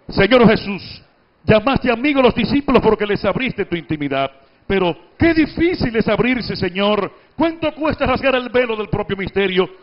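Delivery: brisk, even conversational reading; quick, light reading. Shown as a demonstration. Teacher demonstrating the quick, light everyday reading to the class. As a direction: read it nimbly and lightly. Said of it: "en esa forma ágil y picadita".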